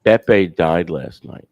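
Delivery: spelled out slowly, each word weighed; slow and deliberate. Real, not acted. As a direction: say it slowly, letting it land. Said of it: "repeats slowly for emphasis".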